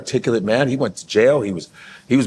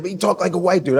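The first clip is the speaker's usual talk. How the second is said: mock heckler, pitched up; lightly voiced heckler in a higher pitch; 6 semitones higher, faster than usual. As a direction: imitate a guy calling out from a club crowd. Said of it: "Dude's like".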